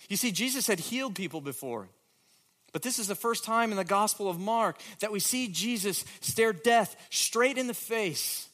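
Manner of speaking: preacher rising to the climax of the sermon; fervent build. Real, not acted. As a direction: drive it up with conviction.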